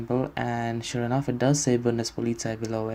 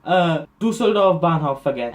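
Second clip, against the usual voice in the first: raised, louder acted correction; higher, insistent retold German reply; flustered correcting; 5 semitones higher, 5 dB louder than usual. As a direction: hurriedly set the clerk straight. Flustered correction to the surprised clerk.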